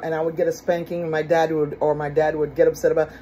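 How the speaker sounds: normal talking voice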